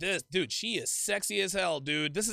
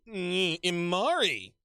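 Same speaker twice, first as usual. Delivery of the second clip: slow, drawn-out mock swoon; hum, then draw the name out as if smitten; playful imitation of a smitten hug greeting; imitating a turned-on woman; slower than usual. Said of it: "She hugged him while saying his name".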